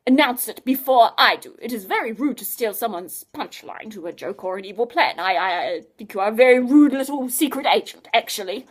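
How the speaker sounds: a touch of wounded pride; offended. Acted. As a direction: scientist miffed that Adam stole his line, mock offended. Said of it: "in a very offended voice".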